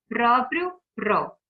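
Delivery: "Próprio" loud on "pró", then "pró" alone; stress on PRÓ. Shown as a demonstration. Teacher showing the strongest syllable, emphatic "pró" in "Próprio". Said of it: "a sílaba mais forte".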